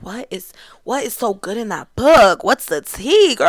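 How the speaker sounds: nosy onlooker. Pretend. Imagined onlookers asking curiously.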